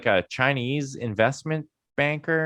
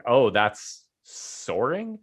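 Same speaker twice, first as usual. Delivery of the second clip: sarcastic drawn-out; much slower than usual. Retold or imitated. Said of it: "And I'm like".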